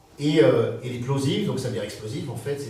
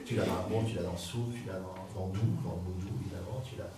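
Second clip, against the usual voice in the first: soft tenderness; 5 semitones lower, 8 dB quieter than usual. Shown as a demonstration. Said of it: "cette douceur-là".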